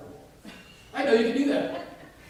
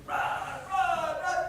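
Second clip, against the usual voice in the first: retold encouragement; 3 dB louder, much slower than usual. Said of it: "encouraging them".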